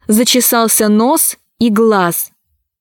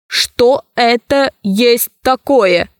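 slow, emotionless robot voice; slower than usual. Acted. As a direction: speak like an unfeeling machine. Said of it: "голоса их никаких чувств не выражали". (медленный голос робота без чувств)

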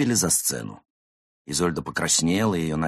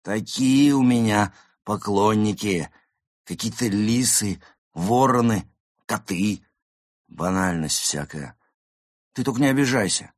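grand diva, dismissive; 4 semitones higher, 5 dB louder than usual. Acted. Actress belittling her fans to one of them, grand diva. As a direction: draw out each item theatrically.

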